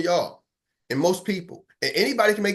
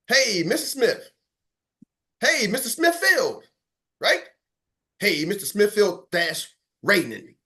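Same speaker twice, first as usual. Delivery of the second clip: slow repeated greeting; 3 semitones higher, slower than usual. Shown as a demonstration. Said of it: "do that again".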